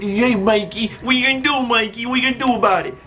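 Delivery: teasing dare; mocking bully taunt. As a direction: imitate a bully egging someone on. Imitating bully taunting again.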